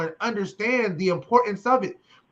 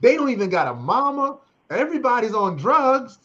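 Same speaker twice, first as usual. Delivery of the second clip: pleading fundraiser; 2 semitones higher, 5 dB louder than usual. Acted. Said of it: "you gotta tell them how awful the people are".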